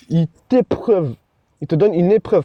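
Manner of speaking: talking while chewing gum. Real, not acted. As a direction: say it around a wad of gum. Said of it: "j'ai un chewing-gum dans la bouche".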